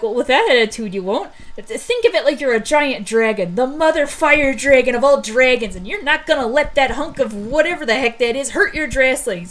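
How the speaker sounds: encouraging pep talk. Acted. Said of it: "how I would courage Arthur".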